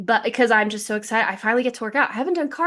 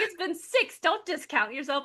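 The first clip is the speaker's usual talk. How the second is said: softer, kindly correcting; gentle correction; 5 semitones higher, 6 dB quieter than usual. Retold or imitated. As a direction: quietly reassure her it's been longer. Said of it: "He's like".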